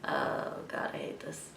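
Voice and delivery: scared whisper at a spider; frightened whisper. Real, not acted. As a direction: whisper it in fear. Spider on the window.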